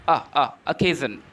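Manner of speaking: "uh, uh" isolated, then occasion as "uh-KAY-zhun"; demonstrated first vowel. Shown as a demonstration. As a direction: drill the weak opening vowel of occasion. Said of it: "We pronounce occasion".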